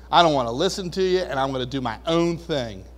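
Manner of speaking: fast, dismissive brush-off; rebellious dude. Retold or imitated. Pastor voicing a rebellious dude, quick dismissive brush-off. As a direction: rattle it off like a defiant kid. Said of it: "like a rebellious dude".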